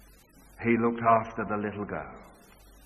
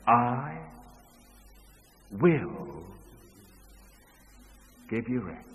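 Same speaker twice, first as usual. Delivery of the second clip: slow, soft, spaced-out words; a touch of the Savior's tenderness; tender promise; 4 dB quieter, slower than usual. Acted. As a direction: promise rest gently, word by word. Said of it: "He says".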